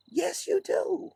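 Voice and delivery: a drawn-out high taunt; mocking high retort. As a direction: sing it back at them slowly.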